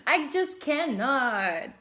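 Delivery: high, loud, slow squeal of delight; giddy disbelief. Real, not acted. Reacting to the transformation card, high loud squeal. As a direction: squeal it out, amazed.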